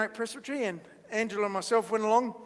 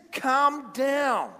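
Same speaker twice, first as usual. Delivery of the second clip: mock stern order. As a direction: order them down, dragging each word. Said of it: "instead of going like this".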